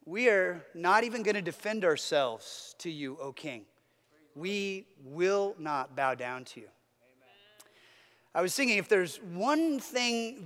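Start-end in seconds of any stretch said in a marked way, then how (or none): 0.0-6.7 quiet, unshaken refusal; calm. Retold or imitated. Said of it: "they calmly say".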